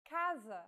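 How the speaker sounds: casa with a hard K sound, KA-za; hard C demo. Shown as a demonstration. Teacher shows the hard C sound to learners. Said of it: "the letter C sounds like this".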